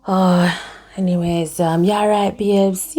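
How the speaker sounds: lightly voiced cajoling boyfriend; a hint of a wheedling man, babes drawn out; sly man's voice. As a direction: soften it to bait her sympathy. Acted dialogue, the man fishing for pity.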